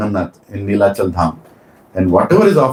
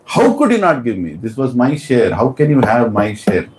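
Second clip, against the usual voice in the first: acted anger. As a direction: demand your share in mock anger. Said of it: "She was very angry".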